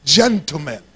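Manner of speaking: playful British accent for others to copy; lightly put-on British accent. Shown as a demonstration. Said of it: "Everybody say it like that".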